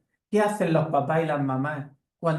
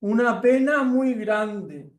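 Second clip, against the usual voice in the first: higher, slow, caring bear voice; mother bear; 5 semitones higher, 3 dB louder than usual. Acted. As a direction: explain gently to the mouse, drawn out. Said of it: "Y la osa dice".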